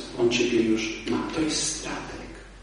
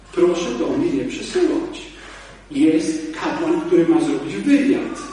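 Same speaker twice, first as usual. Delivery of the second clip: firm, deliberate; 2 semitones higher, 3 dB louder, slower than usual. Retold or imitated. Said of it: "Ja powiedziałem".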